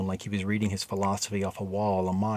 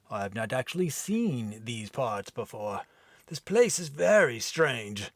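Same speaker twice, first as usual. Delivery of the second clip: mild puzzled Viking. Acted. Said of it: "rough, deep brogue accent".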